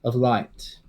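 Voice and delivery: Avidar's advice. Acted. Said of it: "shakes his head and goes".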